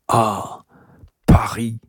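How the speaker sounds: hushed, admiring proclamation; encouraging tone. A narrator's reading. Uncle shows his niece the landscape, encouraging tone. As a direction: present it with understated wonder. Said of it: "d'un ton encourageant".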